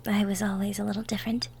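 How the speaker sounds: whisper. Acted. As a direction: confide it in a hush. Quiet confession.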